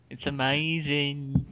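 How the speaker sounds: lightly voiced, slow drawn-out wonder; a hint of an awestruck TV presenter; Brian Cox. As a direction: linger dreamily on the word. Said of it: "That's what Brian Cox does".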